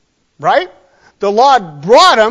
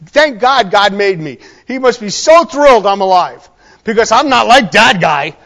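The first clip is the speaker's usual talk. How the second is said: louder, hammed-up smug relief; mock self-congratulation; 5 dB louder than usual. Man comparing himself to someone evil, mock-grateful and loud. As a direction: play the self-righteous man lightly mocked.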